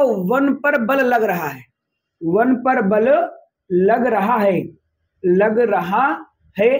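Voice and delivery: slow, broken into pieces with pauses; slow, chunked explanation. Shown as a demonstration. Teacher slowly breaks down the rule for students, chunked. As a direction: drag out वन पर बल in separate chunks. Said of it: "इसका मतलब क्या हुआ".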